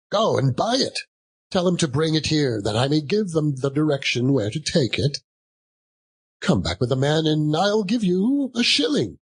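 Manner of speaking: put-on lively old man bargaining; earnest Scrooge. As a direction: hurry the boy along. Scrooge instructing boy.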